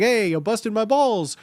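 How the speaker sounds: lively joking jab at a pal; playful ribbing. Shown as a demonstration. Joking with friends, playful ribbing. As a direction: tease it out, mock-indignant and fun. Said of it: "It can be fun with your friends".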